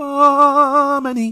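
pleasant, drawn-out delivery. Retrying a word so it sounds a bit nice, saying it nicely. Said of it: "Yeah, that sounded all right".

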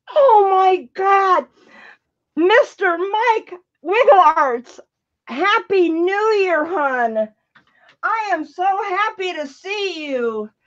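high, ecstatic, overjoyed, gushing voice. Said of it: "She is ecstatic right now. I can tell by the tone of her voice".

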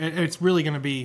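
ordinary delivery

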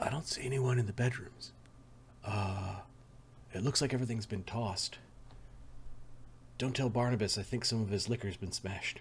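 very quiet, barely voiced whisper. Voicing a character reporting back from the bedrooms: whispering as Los. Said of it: "He comes back and he whispers to you".

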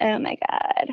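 put-on dry valley-girl vocal fry, soft and breathy. Explaining a tone of voice, demonstrating vocal fry. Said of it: "this kind of dry, like".

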